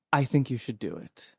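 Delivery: soft, gentle encouragement. Acted. Yersinia thumbs Marley's cheek and encourages her, gently. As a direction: gently urge her on, softly. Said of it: "thumb her cheek gently and say".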